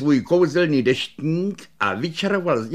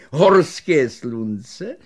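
very slow, louder rising offer; hawking offer; 5 dB louder, much slower than usual. Acted. Shopkeeper offering the sunlamp, slow rising call. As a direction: draw out the offer like a salesman.

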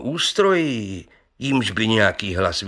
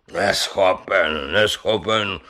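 slow, dogged repeat of neschopen; stubborn protest; 3 semitones lower, slower than usual. Acted. Brewer stubbornly defending his claim, slow protest. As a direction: refuse the word, slowly and stubbornly. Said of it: "bránil se houževnatě Pivoňka".

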